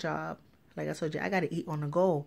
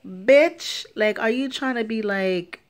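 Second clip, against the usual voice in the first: furious inner rant; 2 semitones higher, 5 dB louder than usual. Retold or imitated. To the nurse who assumes she smokes weed, loud furious rant. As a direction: blow up at her in your head. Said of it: "That shit was making my blood boil".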